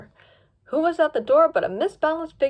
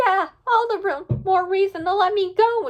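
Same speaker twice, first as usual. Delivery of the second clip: cried out; 8 semitones higher, 4 dB louder than usual. Acted. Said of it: "Spot cried".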